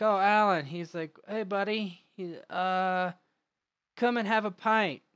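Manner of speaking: high, loud, boozy welcome; a drunk thrilled to see an old buddy; jolly drunk. Acted. Drunk John greets Alan.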